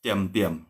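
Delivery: "Tiam, tiam" low, with unaspirated t; low falling "tiam", twice; tone for "quiet". Shown as a demonstration. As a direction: repeat "tiam" low, no puff of air. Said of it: "Intonasinya ya".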